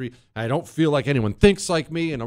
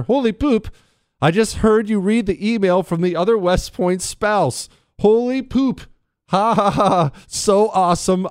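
high, loud thrilled email reading; hammed-up giddy exclamations; excited; 7 semitones higher, 4 dB louder than usual. A narrator's reading. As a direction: read it as a gushing, delighted fan.

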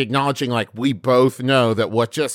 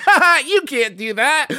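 high, giggled mock reprimand; laughing scolding; 11 semitones higher than usual. Friend imitates a dad failing to discipline his kid, laughing. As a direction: try to scold through laughter. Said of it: "your response is like".

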